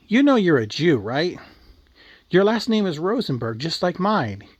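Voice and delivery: mildly hammed-up angry grandma; furious grandma. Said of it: "Grandma, just furious, totally pissed".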